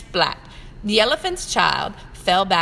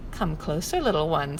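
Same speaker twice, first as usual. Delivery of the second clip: sly crocodile; 4 semitones lower than usual. Acted. Crocodile luring child.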